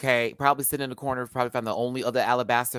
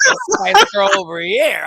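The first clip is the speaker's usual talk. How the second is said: loud sassy call; 9 dB louder than usual. Retold or imitated. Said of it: "repeated line".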